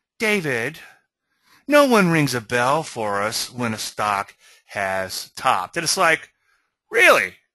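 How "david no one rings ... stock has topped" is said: very calm, even, unruffled, composed delivery. Retelling what he said on the phone after a stock crashed: imitating someone speaking very calmly. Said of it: "very calmly".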